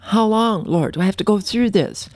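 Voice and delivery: high exasperated complaint; high exasperated come on; frustrated plea. Retold or imitated. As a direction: let the frustration burst out. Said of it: "outbursts of frustration and upset".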